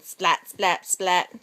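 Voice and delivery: low splatting sound; lightning splat. Shown as a demonstration. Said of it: "He makes lightning".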